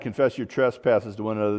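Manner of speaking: "confess your trespasses to one another" rattled off fast; quick aside. Real, not acted. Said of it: "I just wanna kinda aside".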